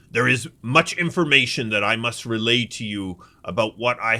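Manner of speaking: lightly voiced commanding general. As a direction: address the group with a general's measured authority. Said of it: "this guy's got his general voice on".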